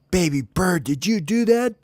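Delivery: high, rising squeaky accusation; accusing friends. Acted. Friends question baby bird about the smell, high and accusing. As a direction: pipe up high, demanding to know.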